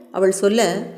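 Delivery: usual speaking voice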